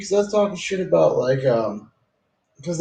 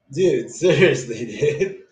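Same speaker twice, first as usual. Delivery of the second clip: laughing; slower than usual. Real, not acted. Laughing over his own joke.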